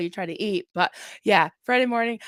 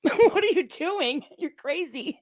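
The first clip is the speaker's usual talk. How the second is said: dog voice; 6 semitones higher, slower than usual. Retold or imitated. Dogs voiced looking at her.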